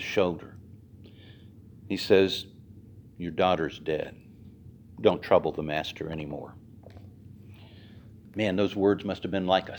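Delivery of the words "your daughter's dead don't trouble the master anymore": low, soft, heavy delivery; grim news. Acted. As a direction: break the bad news gently. Messenger bringing death news.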